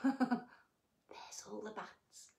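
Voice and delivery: slow unvoiced whisper. Real, not acted. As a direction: point and whisper slowly. Whispered pointing at bats.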